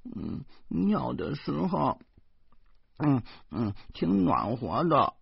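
put-on soft, slow little boy; dreamy child. Nephew telling his uncle it felt warm, soft and slow. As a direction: remember it fondly, softly.

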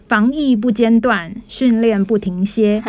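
slow, measured slogan chant; proudly spaced-out company motto; punchy slogan. Real, not acted. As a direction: hammer out each phrase of the slogan. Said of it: "有没有很有力".

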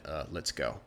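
low, soft and hesitant; awkward exit. Acted. The awkward Pooka quietly tells the boy to leave, low and soft. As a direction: mumble it to get out fast. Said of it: "The Pooka's kind of awkward".

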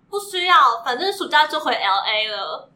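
lightly voiced show-off student; affected Taiwanese. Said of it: "比较做作的台湾人". (做作的台湾腔)

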